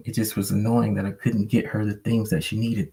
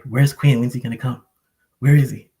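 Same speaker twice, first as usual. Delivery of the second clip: dog looking for owner; 4 semitones higher, 5 dB louder than usual. Retold or imitated. Voicing his dog searching for him.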